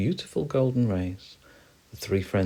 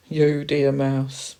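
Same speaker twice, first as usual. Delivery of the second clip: high, loud, slow hamster voice; teasing hamster; 7 semitones higher, 7 dB louder, much slower than usual. Acted. Hamster answering the mouse, high and drawn-out. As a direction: draw it out pointedly.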